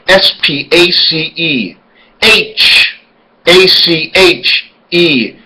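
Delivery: slow letter-by-letter spelling. Shown as a demonstration. Spelling a word aloud for viewers, slow and deliberate. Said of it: "Number forty-four".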